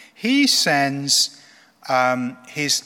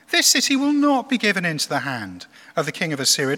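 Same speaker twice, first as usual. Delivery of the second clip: calling out; 3 semitones higher, 3 dB louder than usual. Acted. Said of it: "stood and came out in Hebrew".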